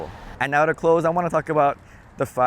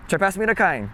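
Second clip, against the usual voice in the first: Pidgin request; 6 semitones higher than usual. Shown as a demonstration.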